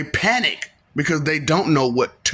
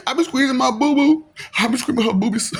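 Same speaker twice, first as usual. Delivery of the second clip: playful teasing; 8 semitones higher than usual. Acted. Teasing, laughing, playful mock line.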